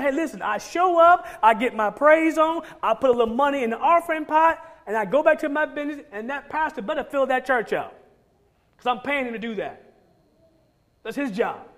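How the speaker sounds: a hint of a smug pew-sitter shrugging off the job; casual churchgoer. Preacher mocking churchgoers who leave it to the pastor, lightly voiced smug attitude.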